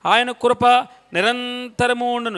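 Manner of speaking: the refrain said out firmly for the people to repeat; a preacher showing the congregation their response; congregational refrain. Shown as a demonstration. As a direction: model the response line clearly so they can join in. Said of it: "ఆ మాట మీరు పలకాలి".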